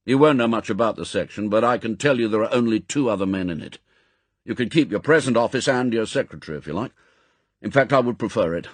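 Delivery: fast, firm briefing; M, brisk chief. Acted. Chief briefs agent on new posting, brisk and firm. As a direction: rattle off the orders.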